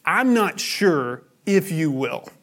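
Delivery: slow, even and unleading; a neutral, slow, uncertain statement; bare neutral. Shown as a demonstration. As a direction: say it slowly with no hint of the answer. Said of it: "the third way is just sort of bare neutral".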